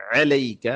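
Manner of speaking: علیک starting on a distinct throaty ain; clear ain. Shown as a demonstration. Teacher models the letter for learners, clear ain in علیک. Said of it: "عین واضح کریں".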